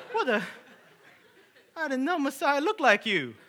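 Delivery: high, loud amazed outburst; mock astonishment. Homeowner takes the handyman for Messiah, loud comic amazement. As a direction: blurt it out in comic disbelief.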